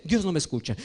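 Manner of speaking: soft, sulky complaint that God won't listen; dejected complaint. Retold or imitated. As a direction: mutter it like a let-down believer. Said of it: "y dice".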